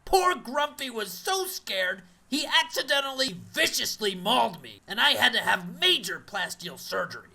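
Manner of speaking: muffled behind a face cast. Acted. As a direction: talk through a covered mouth. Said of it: "my face cast makes me difficult to hear".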